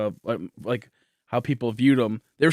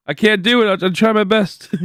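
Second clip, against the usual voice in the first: laughing; 9 semitones higher, 7 dB louder than usual. Real, not acted. Laughing after failing a name.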